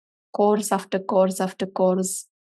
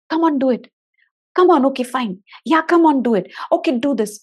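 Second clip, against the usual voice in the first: pushy parent urging; 4 semitones higher, 5 dB louder than usual. Retold or imitated. Parent pushing child on.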